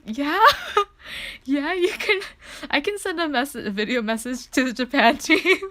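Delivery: high, loud, giddy gushing; imitated excited screaming. Fan saying yes to the staff member, giddy squeal. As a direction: squeal it out through laughter. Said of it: "I'm, like, screaming".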